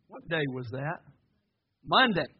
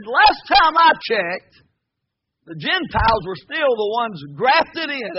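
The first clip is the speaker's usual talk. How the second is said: retort; 2 semitones higher, 6 dB louder, slower than usual. Retold or imitated. Retold retort to the arrogant claim.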